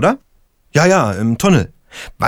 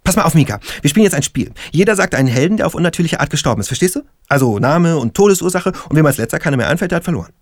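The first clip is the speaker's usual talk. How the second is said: sudden upbeat mood; 4 semitones higher, faster than usual. Acted. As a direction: switch to playful energy. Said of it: "plötzlich kippt seine Stimmung".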